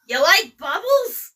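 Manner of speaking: drawn out slow and high; quoting a movie line. Retold or imitated. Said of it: "bonus quote number one".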